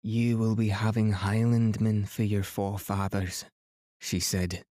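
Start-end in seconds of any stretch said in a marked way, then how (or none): 0.0-3.4 rich, full Highland Scottish lilt, lightly voiced; a proud old Highland Scotswoman, in a mild Highland accent. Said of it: "in an unexpectedly rich, powerful voice, full of delightful Highland accent".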